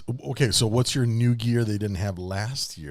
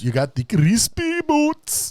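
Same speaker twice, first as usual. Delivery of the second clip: excited; 10 semitones higher, 3 dB louder, slower than usual. Pretend. Excited slow repeat.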